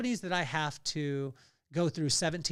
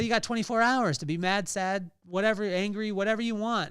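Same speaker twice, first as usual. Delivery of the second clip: friend's tough love; 5 semitones higher, 4 dB louder than usual. Retold or imitated. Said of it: "she said".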